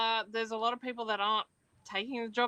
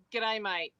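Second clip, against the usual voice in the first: Australian greeting. Shown as a demonstration. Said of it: "give us an expression or a phrase".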